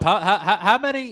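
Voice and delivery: laughing through a stammered question; laughing, pitch jumping up. Real, not acted. Laughing while asking Shaky.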